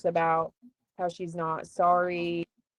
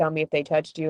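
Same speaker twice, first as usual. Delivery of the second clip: ordinary delivery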